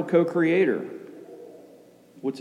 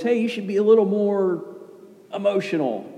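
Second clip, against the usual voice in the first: imitating a churchgoer; 6 semitones higher than usual. Preacher mimicking congregants asking for more animated preaching, mock nudge. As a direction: playfully mimic someone pushing the preacher to liven up. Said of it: "A lot of people want me to come up here and be more animated".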